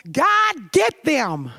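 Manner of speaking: high, pointed little jab; half-joking plea for payback; mock vengeful plea. Confessing her angry prayer to listeners, playfully vengeful. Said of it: "a little".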